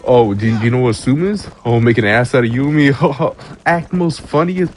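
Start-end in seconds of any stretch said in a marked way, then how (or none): 0.0-3.3 smug mocking quote. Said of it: "They're like".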